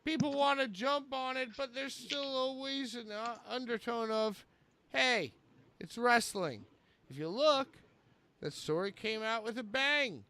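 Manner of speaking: theatrical read-aloud with sudden swells; Chris Jericho. Acted. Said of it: "Here's Jericho. Quote".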